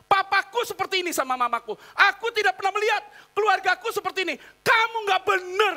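upset wife retort. Retold or imitated. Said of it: "Dia ngomong apa?".

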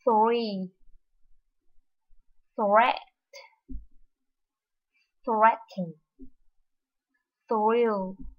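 slow model words with a clear th before r; each word from "Three" to "Throw" said slowly and cleanly; teacher's model thr words; careful thr. Shown as a demonstration. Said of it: "mình sẽ đọc như sau".

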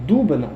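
«Дубина» with stress on the first syllable, У. Shown as a demonstration. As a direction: hit the opening syllable of «Дубина». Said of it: "і буду казати Дубина". («Дубина» з наголосом на першому складі)

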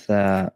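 "Tha" mit Zunge zwischen den Zähnen; "Tha" wie ein gelispeltes T; lispelndes Tha. Shown as a demonstration. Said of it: "lispelndes Ta". ("Tha" lispelnd, Zungenspitze sichtbar)

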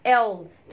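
"L" as a heavy, dark el. Shown as a demonstration. Teacher isolating the sound, "L" said dark. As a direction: let "L" sit at the back. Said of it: "خلي بالنا من ال L".

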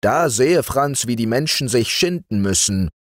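a hint of a blustering tempter; lightly voiced arguing sorcerer. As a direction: argue it with mock gravity, slowing late. Zacher argues with Frau Martha.

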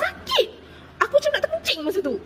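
high, laughing through the memory of pain. Real, not acted. Ketawa mengenang kesakitan. (ketawa sambil mengenang sakit, suara tinggi)

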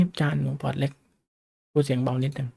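soft, timid-sounding imitation of a follower; quiet voice. Small-portfolio follower addressing the teacher, in a quiet imitated voice.

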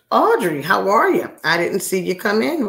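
high, loud singsong greeting; calling out hello. Real, not acted. Host spotting Audrey coming in, calling out hello. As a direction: sing out a surprised hello.

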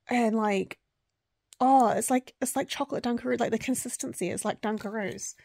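high, loud, delighted rush; excited gushing. Real, not acted. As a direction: gush about a treat you love. Gushing about favourite snack.

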